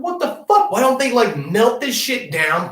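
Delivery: retelling his amazement on the phone; amazed. Retold or imitated. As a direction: exclaim it in wide-eyed wonder. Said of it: "was like".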